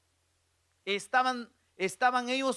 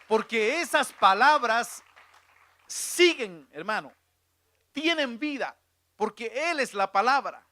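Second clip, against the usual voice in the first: loud, raised preacher's exhortation; full-voiced, emphatic sermon climax; forceful preaching; 4 semitones higher, 5 dB louder than usual. Real, not acted. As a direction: drive the encouragement home to the congregation.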